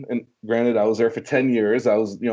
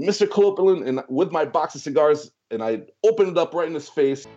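put-on eager young rep; 3 semitones higher than usual. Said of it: "And I'm like".

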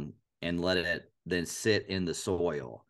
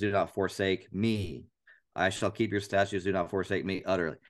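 repeating to memorize. Shown as a demonstration. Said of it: "emphasizing each word as I go".

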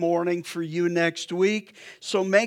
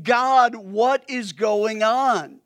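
desperate cry to God; 2 semitones higher, 3 dB louder, slower than usual. Acted. Pastor voicing the prophet crying out to God, beside himself. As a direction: cry out in bewilderment, drawing the question out. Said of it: "He's basically beside himself".

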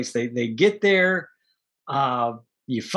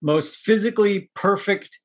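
mock stern captain; 4 semitones higher than usual. Captain scolds about the crew.

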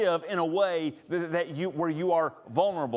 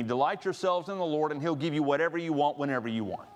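breezy fast misquoted promise; tossed-off wishful misquote of the verse; mock misquote; 3 semitones lower, faster than usual. Shown as a demonstration. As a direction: rattle it off like a too-good deal. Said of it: "That's actually not the rest of the verse".

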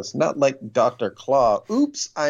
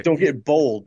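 lightly voiced villain warning, louder; a hint of the cartoon villain, firmly projected; Krulos impression; 2 semitones higher, 5 dB louder than usual. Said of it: "That's what it was".

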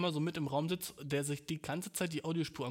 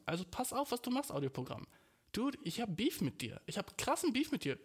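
half-joking threat to the program; a host mock-threatens his audio software; 7 semitones higher than usual.

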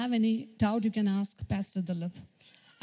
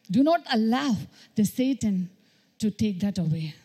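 forceful sermon with punched key words; emphatic preaching; 4 dB louder than usual. Real, not acted. Preacher tells young believers of their calling, emphatic preaching.

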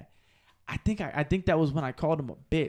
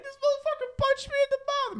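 put-on whiny kid quote; faster than usual. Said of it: "I was like".

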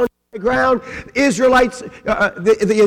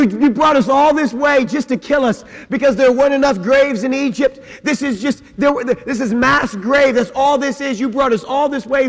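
higher, whiny complaint; grumbling Israelites; 3 semitones higher than usual. Acted. Israelites trapped at the sea complain to Moses, whining. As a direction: gripe at Moses like ungrateful people. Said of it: "They grumbled".

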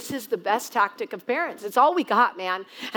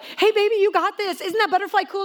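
put-on high sing-song cheer to a child; sing-song coaxing; 9 semitones higher than usual. Mom cheering on her tired daughter, high sing-song coaxing. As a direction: brightly coax a wobbling kid.

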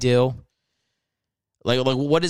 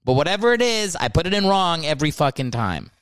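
frustrated; 6 semitones higher than usual. Real, not acted. Frustrated rant about spelling.

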